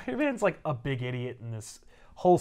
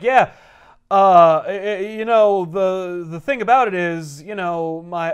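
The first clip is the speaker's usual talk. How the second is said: flustered Peter; 4 semitones higher, 9 dB louder, slower than usual. Retold or imitated. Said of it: "And he's like".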